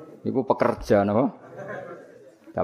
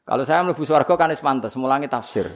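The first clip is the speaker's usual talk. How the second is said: raised, louder smug boast half-laughing; smug mock teacher; 3 semitones higher, 3 dB louder than usual. Preacher mimics the teacher boasting he deserves heaven, smug and louder. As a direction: puff up like a self-satisfied tafsir teacher.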